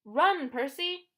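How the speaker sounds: loud, high, slow drawn-out call; shouted plea. A narrator's reading. Annabeth urging Percy to flee, shouting. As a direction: call him away urgently.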